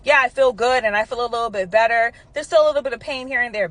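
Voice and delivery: hearty and confident; big, bold voice. Retold or imitated. Stepfather telling the doctor he feels better, bold voice. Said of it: "Big, bold voice".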